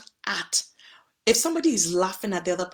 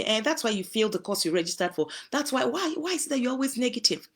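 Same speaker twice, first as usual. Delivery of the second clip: mildly acted nagging, pitch climbing; critical spouse; 4 semitones higher than usual. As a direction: nag a little, rising into the question.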